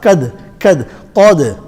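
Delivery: Qad with a big rounded back q; full-mouth qaf. Shown as a demonstration. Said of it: "Qaf is full mouth".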